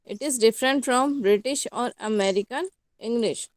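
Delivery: slow, carefully spaced heading read out; slow dictation. Acted. Teacher dictating the point heading to students slowly.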